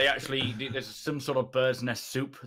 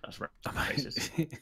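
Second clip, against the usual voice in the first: slow, hushed whispered aside; hushed mock accusation; 2 semitones higher, 7 dB quieter, much slower than usual. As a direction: whisper it haltingly, teasing a friend. Teasing aside about friend's remark.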